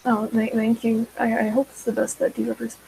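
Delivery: flat, stiff robotic delivery; nervous, robot-like monotone. Real, not acted. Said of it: "I sound like a robot".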